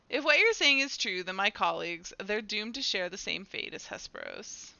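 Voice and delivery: dramatic dialogue reading. Acted. Character fears colleagues share Hesperos's fate, dramatic reading. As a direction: read it as dread for colleagues.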